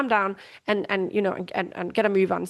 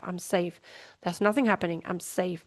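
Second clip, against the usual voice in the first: much softer, lower, settling into I'm safe; soft self-reassurance; 3 semitones lower, 6 dB quieter than usual. Shown as a demonstration. Showing listeners how to calm yourself, softly self-soothing. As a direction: say it quietly to yourself like a calming mantra. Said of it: "you can say that to yourself".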